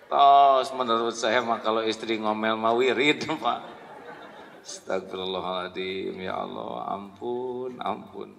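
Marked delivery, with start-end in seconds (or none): 4.6-8.3 hushed, low istighfar; soft mock repentance. Husband caught looking, softly begging forgiveness.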